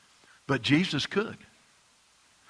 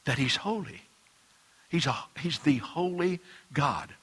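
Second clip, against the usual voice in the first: hushed whisper; 6 dB quieter than usual. Real, not acted. Preacher telling the congregation God is holy, whispered. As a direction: breathe the words out in a whisper. Reverent hush about God's holiness.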